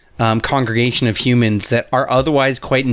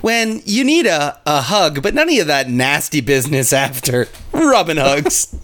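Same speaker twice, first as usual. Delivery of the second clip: ad announcer voice. Acted. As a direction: sell it like a cheesy ad. Fake ad read.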